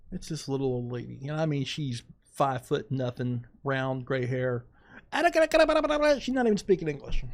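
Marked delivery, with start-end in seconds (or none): 5.1-7.2 surprised. Real, not acted. Old lady shocks him.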